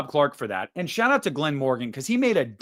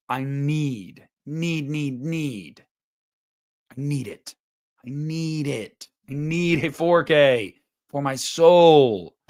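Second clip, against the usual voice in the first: dramatic pleading; slower than usual. Real, not acted. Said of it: "begging for a release".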